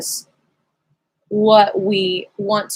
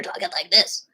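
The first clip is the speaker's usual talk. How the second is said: demonstrating a tight hoarse voice. Shown as a demonstration. Voice teacher showing students unrelaxed speech, hoarse imitation. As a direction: imitate a strained, hoarse talker. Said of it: "You might have a hoarse voice".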